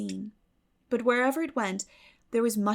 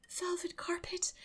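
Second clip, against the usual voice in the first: sighed luxuriously; 10 semitones higher, 9 dB quieter than usual. A narrator's reading. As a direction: savour the words like a treat. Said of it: "sighed Anne luxuriously".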